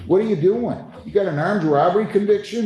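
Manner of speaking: high, disbelieving question; exasperated rise in disbelief; incredulous. Real, not acted. Judge reacts to criminal record.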